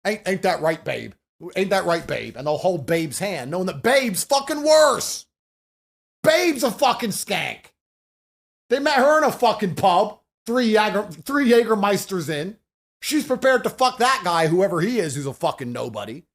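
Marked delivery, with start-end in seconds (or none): 0.1-1.1 lightly voiced smug partner fishing for agreement; mock smug partner. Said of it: "They're gonna sit here and go". 1.6-2.4 lightly voiced smug partner pressing for agreement; mock smug partner, repeated. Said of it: "They're gonna sit here and go". 3.5-15.0 slow, louder contempt; scornful rant. Real, not acted. Scornful rant about partner.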